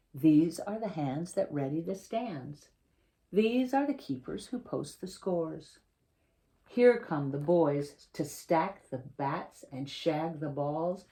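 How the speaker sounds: picture-book reading, lively and clear; reading to children. Acted. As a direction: read the story to a class of kids. Author reads picture book aloud.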